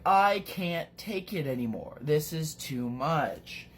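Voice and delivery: lightly acted exasperation, slowing at the end; a touch of melodrama; mock fed-up. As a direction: play a character at his limit, mildly. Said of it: "Mark's like".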